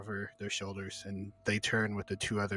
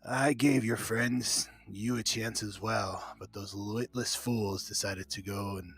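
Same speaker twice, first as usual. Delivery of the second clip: loud announcing voice; 2 semitones higher, 7 dB louder than usual. Acted. Bandit boss taunting the captive fighter before the crowd, loud and booming. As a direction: proclaim it so the whole arena hears. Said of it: "in a very loud voice so everybody can hear".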